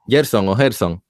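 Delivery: "Gerson o Gerson" as "Yerson o Herson"; first "Gerson" with a Y, second with a jota; both pronunciations. Shown as a demonstration. Host addressing the guest by either name, "Gerson o Gerson" as "Yerson o Herson". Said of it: "se puede pronunciar Gerson también".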